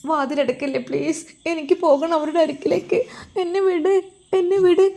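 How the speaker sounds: put-on a trapped girl pleading, rising to a cry of let me go. Girl begging to be released. (വാതിലടക്കരുതെന്ന് കേഴുന്ന പെൺകുട്ടി, ഉയർന്ന ശബ്ദം)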